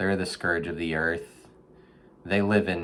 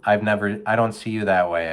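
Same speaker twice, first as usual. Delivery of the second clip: gentle life-coach advice; 4 semitones higher, 3 dB louder than usual. Retold or imitated. Advising a raccoon in a storm drain, earnest counselor voice. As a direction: talk the raccoon through it like a therapist. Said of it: "I said".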